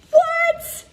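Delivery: a high, loud, amazed What?; stunned high what. Real, not acted. Coach to viewers, floored by the advice, a loud high cry.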